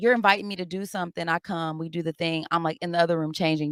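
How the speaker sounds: ordinary delivery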